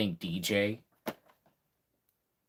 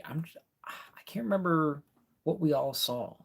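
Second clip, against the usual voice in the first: under the breath, higher; whispering; 6 semitones higher than usual. Real, not acted. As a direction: murmur it to yourself. Forgetting a name, whispered.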